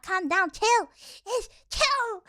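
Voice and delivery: high, pleading exasperation; exasperated. Pretend. Streamer telling outraged Twitter users off, playfully exasperated.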